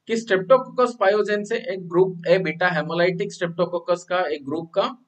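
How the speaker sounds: slow, word-by-word recap. Shown as a demonstration. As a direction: recap slowly for the class. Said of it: "तो मैंने क्या बोला".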